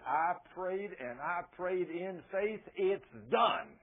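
firm retelling, landing hard on the last words; bold faith. Retold or imitated. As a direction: state it as a settled fact, boldly. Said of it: "is that bold, violent faith?".

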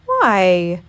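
loud, drawn-out bear voice; Pooh. A narrator's reading. Pooh answering through the door, in a Poohish voice. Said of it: "responded a very poohish-sounding voice".

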